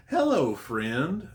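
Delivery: high, drawn-out mock baby greeting; singsong put-on kiddie voice, stretched out; childish baby voice. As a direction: imitate a possessed child, slow, loud and high. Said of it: "childish baby voice".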